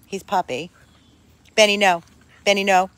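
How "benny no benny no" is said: firm no. Real, not acted. Scolding the puppy.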